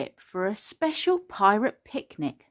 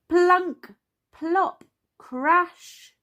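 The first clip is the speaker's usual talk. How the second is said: high, punchy sound-effect words; 11 semitones higher, 7 dB louder, much slower than usual. A narrator's reading. Narrator filling the trolley to the top, punchy noise words. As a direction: punch each noise word high and separate.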